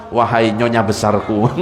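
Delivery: low, hushed mock-loving address; mock romantic call. Husband teasing his big wife, low mock croon. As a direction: croon it low as a playful tease.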